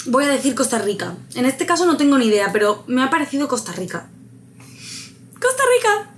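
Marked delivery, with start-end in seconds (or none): 5.4-6.1 high, excited shout of the answer; excited cry. Real, not acted. Player announcing her quiz guess, exclaiming excitedly.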